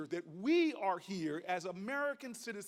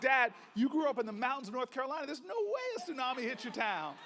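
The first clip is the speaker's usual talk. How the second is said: incredulous protest; 3 semitones higher, faster than usual. Retold or imitated. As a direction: blurt it out, can't believe it. Son scoffs at father's tsunami tale.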